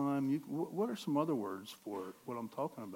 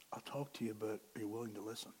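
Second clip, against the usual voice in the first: much softer and lower, hushed; still small voice; 5 semitones lower, 13 dB quieter than usual. Pretend. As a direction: say it gently, barely above a breath.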